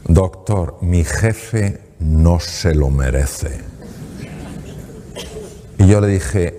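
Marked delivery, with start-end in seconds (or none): 0.1-3.6 very slow, low and defiant; showing claws. Retold or imitated. Patient refuses to smile at her boss, slow defiant. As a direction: drag it out, refusing flatly. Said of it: "Sacó uñas".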